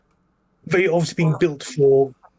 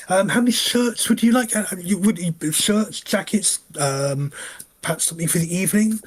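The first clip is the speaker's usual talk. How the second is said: goblin tailor; 5 semitones higher than usual. Acted.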